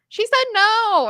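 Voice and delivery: put-on high child's plea; little niece voice. Niece asking her aunt for money, high child voice. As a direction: ask like a small girl who wants something.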